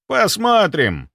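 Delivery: slow, high, smug drawl; smirking. A narrator's reading. Security chief answering doubters with a smirk. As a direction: say it with a knowing smirk. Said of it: "усмехнулся Свиридов".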